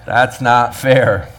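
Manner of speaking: slow, whiny "That's not fair."; mock complaint. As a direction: drag it out like a sulking worker. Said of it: "to which all of us say".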